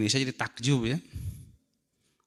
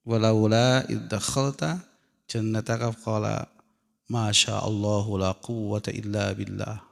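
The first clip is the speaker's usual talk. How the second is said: Quran recitation. Acted. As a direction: recite the verse with reverence. Reciting Quran verse in Arabic.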